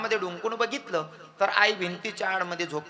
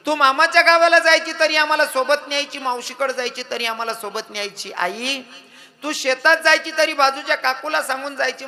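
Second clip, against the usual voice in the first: loud, high wailing lament; grieving child crying for mother; child's lament; 5 semitones higher, 8 dB louder than usual. Acted. Children lament their dead mother.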